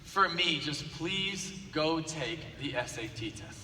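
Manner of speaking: quiet, slow begging, almost hushed; a teacher pleading softly with a failing student. Retold or imitated. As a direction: coax him gently, just for me. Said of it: "she begged him and begged him".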